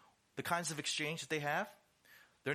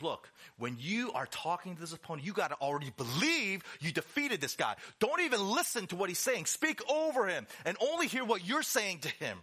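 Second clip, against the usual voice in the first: urging coach; 4 semitones higher, 3 dB louder than usual. Acted. Coach urging fighters before a bout.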